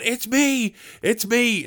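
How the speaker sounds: high-pitched urgent cry, imitated; mock calling out. Captured film character trying to be recognised, mock calling out.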